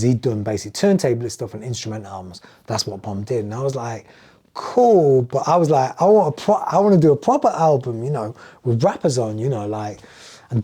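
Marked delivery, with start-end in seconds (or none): 4.5-10.0 excited. Retold or imitated. Retold excited pitch to Dave.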